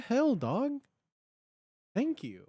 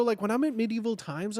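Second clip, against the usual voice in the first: ordinary delivery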